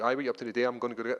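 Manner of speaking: broad, casual Scottish accent; Scottish accent among friends. Shown as a demonstration. Fighter showing how he talks to Scottish friends, broad Scottish accent. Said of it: "I'm gonna speak like this".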